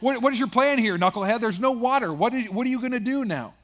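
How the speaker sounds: hammed-up grumbler calling him knucklehead; mock exasperated crowd. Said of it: "they're like".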